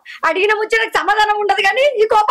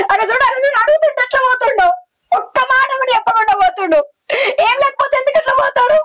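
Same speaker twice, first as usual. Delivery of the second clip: pleading, close to crying; tearful distress; 3 semitones higher than usual. Acted. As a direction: voice breaking into tears by the end. Wife panics as husband walks out. (భర్త వెళ్ళిపోతుంటే ఏడుపు గొంతుతో ఆందోళన)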